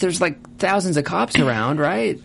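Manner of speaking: high, pleading mock outrage at Nicole; exasperated yelling at character. Podcast host yelling at Nicole on screen, high exasperation.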